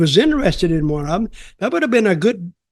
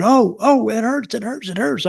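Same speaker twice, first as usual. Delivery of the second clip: higher mock whimper of pain; imitating begging in pain; 6 semitones higher than usual. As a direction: play the guy pleading as his hand is squeezed, lightly. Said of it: "He started begging".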